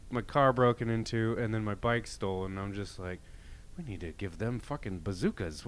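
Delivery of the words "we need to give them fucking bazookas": laughing. Retold or imitated. Joking quote while laughing.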